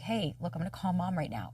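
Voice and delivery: put-on soft, soothing tone to a child; acted tender, hushed reassurance; gentle reassurance. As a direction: quietly comfort a little one. Reassuring her inner child.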